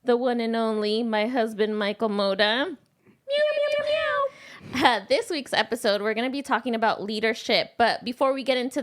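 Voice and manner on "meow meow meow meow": high, playful cat mewing; playful cat meow. Pretend. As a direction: meow like a kitten to greet the kittens. Host meows at listeners called kittens.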